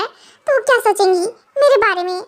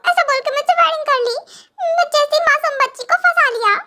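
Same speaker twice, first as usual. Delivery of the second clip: put-on higher-pitched, girlish wounded complaint; hurt accusation; 5 semitones higher than usual. Young wife accusing her husband of never loving her, hurt and complaining. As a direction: pile up the grievances in a high, sulky voice.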